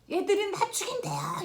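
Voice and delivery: put-on high, loud frightened child's cry; retold terrified scream. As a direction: shriek it like a scared daughter calling for help. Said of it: "이러고 소리를 질렀어요".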